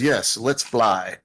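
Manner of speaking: slow, stretched-out character line; odd drawn-out voicing. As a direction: draw the words out oddly. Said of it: "I don't know why I said it that way".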